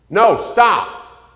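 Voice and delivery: sharp high shout of alarm; mother yelling stop. Retold or imitated. Mother shouting at her child running into the street, alarmed yell. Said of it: "the mother sees and she says".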